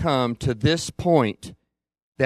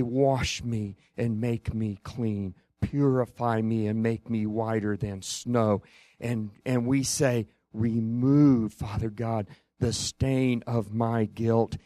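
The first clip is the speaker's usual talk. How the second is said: soft, lowered pleading; repentant prayer; 3 semitones lower, 5 dB quieter than usual. Acted. Preacher voicing repentant believers coming to God, soft plea. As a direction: pray it quietly, humbly asking to be cleansed.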